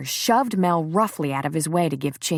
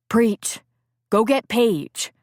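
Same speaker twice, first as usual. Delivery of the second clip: urgent call; 5 semitones higher, slower than usual. Acted. Calling out over a fight.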